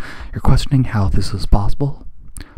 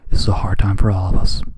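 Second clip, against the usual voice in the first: ordinary delivery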